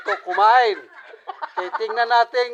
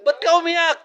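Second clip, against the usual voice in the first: playful teasing; 5 semitones higher than usual. Real, not acted. Teasing the eater for tearing up.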